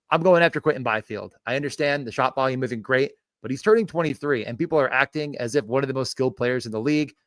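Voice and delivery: upbeat punchy sports pitch; hype video pitch. Acted. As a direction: sell it like a YouTube short. YouTube short pitch read.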